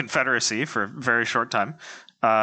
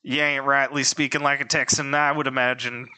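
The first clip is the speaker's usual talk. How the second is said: put-on Texas accent. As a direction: tease in a mock Texas accent. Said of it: "give us your best Texas, Texas accents".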